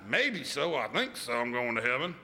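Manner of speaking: hesitant, doubtful mumble; unsure maybe. Shown as a demonstration. Pastor mocks the doubtful churchgoer, hesitant. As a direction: hedge it, half-hearted.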